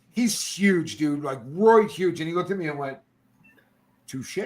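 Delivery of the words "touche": soft, low concession; no anger. Retold or imitated. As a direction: concede quietly, without any edge. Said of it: "no anger in his game at all".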